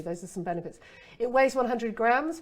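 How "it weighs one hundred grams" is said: slow, louder with a rising lift on weighs; set up for benefit. Shown as a demonstration. Copywriter turning a spec into a benefit, slow and rising. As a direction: lean in, leading to the benefit. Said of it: "Well, what's better to say?".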